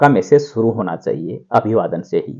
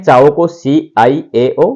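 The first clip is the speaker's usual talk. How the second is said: spelled out; slower than usual. Shown as a demonstration. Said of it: "इसको इस तरीके से लिखते हैं".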